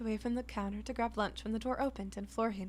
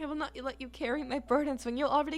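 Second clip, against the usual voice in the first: loud, grand showman voice; theatrical flamboyant chef, louder; booming Quinn; 5 dB louder than usual. Acted. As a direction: boom it out like a proud chef covering sadness. Quinn shrugs off melancholy.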